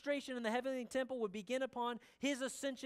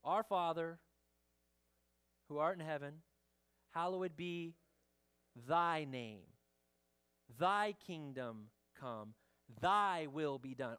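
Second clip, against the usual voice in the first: slow, lower, reverent recitation of the Lord's Prayer; reciting prayer; 6 semitones lower, slower than usual. Shown as a demonstration. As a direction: pray each phrase slowly and with reverence. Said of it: "When you pray".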